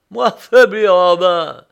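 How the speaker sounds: loud, high, indignant scoff; scoffing outburst. A narrator's reading. Prisoner rejecting the narrator's worry, loud scoffing. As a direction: shout off the very idea of weakness.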